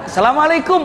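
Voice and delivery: smiling greeting. Acted. Crash victim greeting the driver patiently, smiling greeting. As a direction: greet patiently with an audible smile. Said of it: "Sambil senyum".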